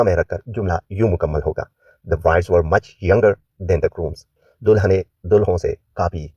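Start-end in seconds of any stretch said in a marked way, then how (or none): 2.1-4.3 slow, careful model reading; teacher reads the answer slowly; slow model sentence. Shown as a demonstration. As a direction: say it slowly for learners to copy.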